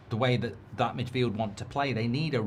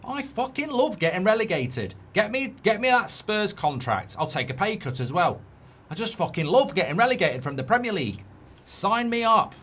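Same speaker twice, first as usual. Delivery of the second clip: higher, hammed-up glee at being relegated; mock gleeful player; 6 semitones higher than usual. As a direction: play the player who loves relegation.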